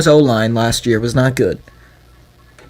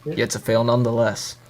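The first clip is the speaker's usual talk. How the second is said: low, quiet menacing promo voice; wrestling promo; 4 semitones lower, 6 dB quieter than usual. Pretend. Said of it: "What are you, cutting a promo?".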